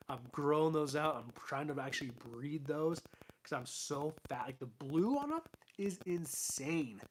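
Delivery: strained, tired voice giving out; losing voice. Real, not acted. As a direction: voice going hoarse from talking. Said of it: "I'm actually losing my voice now".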